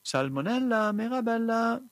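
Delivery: høyt, lyst rop; roper igjen. Acted. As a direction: kall på jenta med full stemme. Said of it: "ropte fru Bonkajevja igjen". (mor roper på datteren igjen, høyt og lyst)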